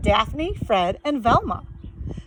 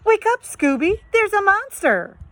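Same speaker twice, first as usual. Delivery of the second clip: Shaggy voice; 11 semitones higher, 3 dB louder than usual. Acted.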